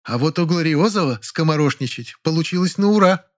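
high, cutting retort; sharp comeback; parrying. Acted. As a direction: fire back sarcastically. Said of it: "парировала Фаина Георгиевна".

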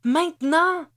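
high, loud insistent command; shouted order. A narrator's reading. Ruby presses X to act now, shouted order. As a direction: yell it as an order. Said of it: "ordonna Ruby".

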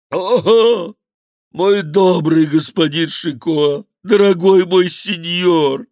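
high, loud, slow groaning plea; howling lament of a fat monk; moaning. Acted. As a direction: moan it out, grovelling. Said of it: "продолжал стенать Гранфло".

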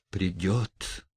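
soft, certain hush; convinced whisper. Acted. Stepan Trofimovich softly insists to his friend, hushed and certain. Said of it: "прошептал он с глубоким убеждением".

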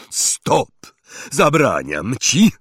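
a loud, panicky bark; terrified roar. Acted. Vernon to Hagrid, frightened roar. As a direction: shout out of pure fear. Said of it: "ryknął przerażony wuj Vernon".

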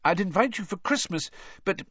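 a mother chatting on in a lightly acted voice; lively, motherly character voice; lightly voiced mother. Mother explaining to children about Christmas, chatty.

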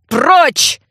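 shouted command. A narrator's reading. Archivist swinging his cane at her, shouting. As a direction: yell her out the door.

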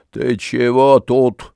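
ordinary delivery

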